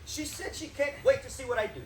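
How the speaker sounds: "wait" imitated with a heavy push, falling; stress on wait. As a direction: mimic her leaning on "wait". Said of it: "emphasized the word wait".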